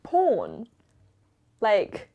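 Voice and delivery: loud, startled rising "Porn?"; shocked. Real, not acted. Caught off guard by the interviewer's porn question, loud shocked echo. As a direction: blurt it out in disbelief. Asked about porn on camera.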